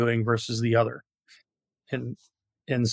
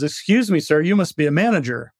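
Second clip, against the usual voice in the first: higher-pitched joke call to someone above; 4 semitones higher, 3 dB louder than usual. Acted. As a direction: hail a stranger, lightly acted. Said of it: "calls up to the man".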